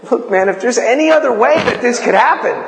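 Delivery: pleading through a laugh, quick; casual begging, half laughing; laughing plea. Retold or imitated. Preacher retells Jesus pleading with the Father, laughing. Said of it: "he said".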